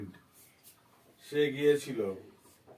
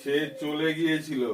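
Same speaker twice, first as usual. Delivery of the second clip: dictating; slower than usual. Shown as a demonstration. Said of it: "লিখতে হবে".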